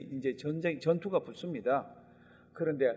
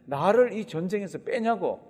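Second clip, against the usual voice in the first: indignant protest; 3 semitones higher, 5 dB louder than usual. Retold or imitated. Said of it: "그런데도 뭐라 그럽니까?".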